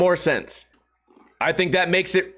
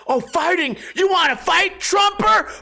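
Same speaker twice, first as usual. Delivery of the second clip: mock challenge shout; 11 semitones higher than usual. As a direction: pick a fight, hammed up. Imagined vegan picks a fight.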